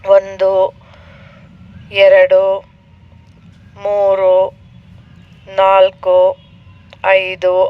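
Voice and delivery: measured, level counting with long pauses; demonstrated breath count. Shown as a demonstration. Yoga teacher showing students how to count breaths, measured count. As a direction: count each breath evenly, leaving space between numbers. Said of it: "ಹೇಗೆ? ಒನ್ to twenty seven counts".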